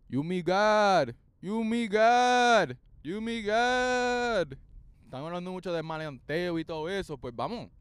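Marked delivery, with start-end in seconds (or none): 0.1-4.6 slow, louder, stretched; slow dramatic slogan. Pretend. Declaring to the audience, a slow dramatic slogan. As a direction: intone it like a proclamation.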